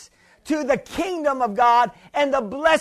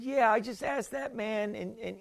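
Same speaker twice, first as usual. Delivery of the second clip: 1 retold lady; 8 semitones lower, 11 dB quieter than usual. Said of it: "And she said".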